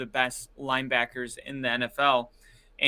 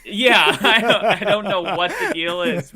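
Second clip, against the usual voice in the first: laughing through the words; giggling while talking; 5 semitones higher, 8 dB louder than usual. Real, not acted. Laughing at buzzed-player joke.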